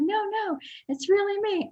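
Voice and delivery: very high, whispery mimicry; imitated whispery lady caller. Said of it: "like, whispery voice".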